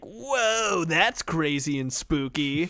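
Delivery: playful, high-pitched "whoa"; mock awe, slowing down after the whoa; mock amazement. Mimics fun reaction to gore.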